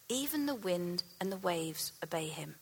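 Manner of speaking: whispered in awe; awed whisper. A narrator's reading. Terrified disciples marvelling at Jesus, whispered. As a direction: breathe it out in wonder.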